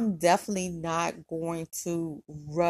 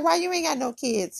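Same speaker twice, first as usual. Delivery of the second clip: surprised; 9 semitones higher than usual. Retold or imitated. She asks the man why he has no kids, high and shocked. She's shocked he's childless.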